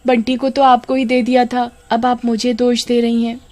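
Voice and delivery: high, fake-sweet denial; nervous false innocence. Kamini denying blame to her sister-in-law, high fake-sweet pleading. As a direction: talk your way out with false innocence.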